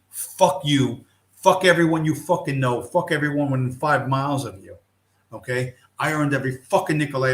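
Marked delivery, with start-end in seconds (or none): 0.1-4.8 louder, heated cursing at an imagined thief; angry tirade. Acted. Warning anyone after his money, a heated louder tirade. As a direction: spit it out like a warning to whoever comes for your money. Rant at would-be thieves.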